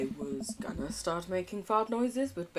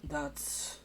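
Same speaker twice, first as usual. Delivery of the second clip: hushed awe; 4 semitones lower, 12 dB quieter, slower than usual. Acted. Mock-moved reply.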